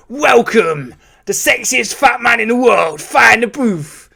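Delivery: lightly voiced radio host hype; Charlie Sloth impression. Shown as a demonstration. Host hyping his friends to the crowd, lightly imitated. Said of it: "if I was doing Charlie Sloth".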